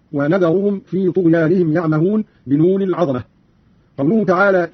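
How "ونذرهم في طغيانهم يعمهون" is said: ونذرهم begun wa-nadharuhum. Shown as a demonstration. Teacher showing Qalun's reading, ونذرهم with n. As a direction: say n in ونذرهم instead of y. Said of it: "قرأ قالون بالنون مكان الياء هكذا".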